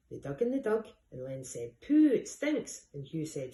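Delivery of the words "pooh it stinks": 2 high, loud, slow disgusted groan; 3 pull back from the stink. Acted. 4 Len digging through the muck heap, disgusted cry.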